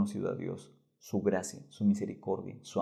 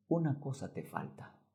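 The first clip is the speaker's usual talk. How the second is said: tender; 4 semitones higher, 7 dB quieter than usual. Acted. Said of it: "Y le dijo con amor".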